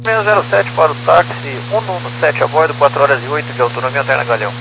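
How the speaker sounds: tinny radio transmission; crackly military radio. Real, not acted. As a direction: voice through a cockpit radio. Pilot over ATC radio.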